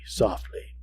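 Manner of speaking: breathy whisper on softly. A narrator's reading. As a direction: drop to a whisper. Narration whispers the word.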